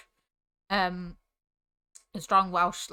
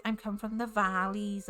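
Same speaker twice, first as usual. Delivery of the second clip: Valleys Welsh accent with "valleys" stretched out; lightly put-on Welsh twang, elongating "valleys"; elongated Valleys Welsh; 5 dB quieter than usual. Shown as a demonstration. Showing how words get elongated, Valleys Welsh twang. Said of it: "you have to elongate certain words".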